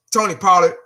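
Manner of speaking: said mid-yawn. Real, not acted. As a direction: yawn through the name. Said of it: "so I'm yawning and shit".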